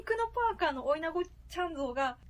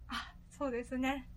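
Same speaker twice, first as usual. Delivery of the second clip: electronically altered voice; voice changer. Real, not acted. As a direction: voice run through a voice changer. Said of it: "ボイスチェンジャー使ってるんでね".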